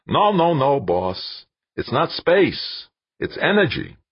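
insist, drawing each word out; vigorous insistence. A narrator's reading. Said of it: "Shaking his head vigorously".

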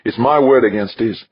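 high, loud defiance; coldly furious. A narrator's reading. Westfall dismissing the charge to Archer, coldly furious. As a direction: stand your ground in an icy high voice. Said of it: "her voice coldly furious".

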